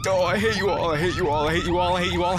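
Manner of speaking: panicked yelling. Real, not acted. Fleeing mannequins.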